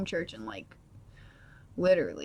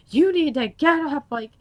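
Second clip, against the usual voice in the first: raised, louder scolding, mimicking dad; going off; 4 semitones higher, 5 dB louder than usual. Dad urging daughter out of bed, going off on her. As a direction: imitate a father's urgent telling-off. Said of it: "going off on me".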